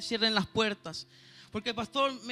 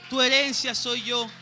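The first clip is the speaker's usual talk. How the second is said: slow and louder, driving it home; emphatic repeat; 5 dB louder than usual. Retold or imitated. Preacher repeating God's words to the church, slow and louder. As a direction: repeat the promise with force.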